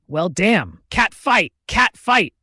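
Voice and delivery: high, loud gleeful cheer; excited yelling. A narrator's reading. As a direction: yell it out like egging on a fight. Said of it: "Zach yells excitedly".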